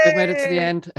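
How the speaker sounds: loud, high, shouted sign-off; excited announcement. Real, not acted. Outro announcement.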